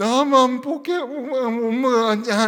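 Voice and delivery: very loud, very slow, drawn-out teary wail. Parent retells the youngest child crying one morning, imitating tearful whimpering. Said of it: "얘가 울먹이면서 이렇게 얘기해요".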